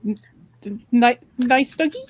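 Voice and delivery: tentative, questioning, with a touch of acted fear; nervous stammer. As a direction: stammer as if placating a growling dog. Player faces a growling dog.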